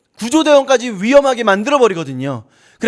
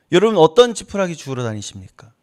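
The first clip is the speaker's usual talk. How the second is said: usual speaking voice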